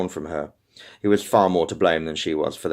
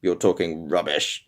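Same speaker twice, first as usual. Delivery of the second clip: slow, through clenched teeth; through his teeth; 3 semitones lower than usual. Acted. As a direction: grit it through your teeth. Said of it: "he said through his teeth".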